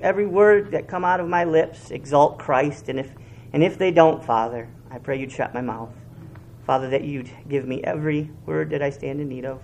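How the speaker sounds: earnest, low pastoral prayer; hushed pulpit prayer. Real, not acted. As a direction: pray it humbly before God. Pastor prays before the sermon.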